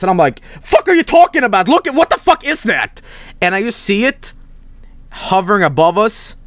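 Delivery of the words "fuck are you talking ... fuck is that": retold shock. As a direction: blurt it out in stunned disbelief. Retold panic at the UFO.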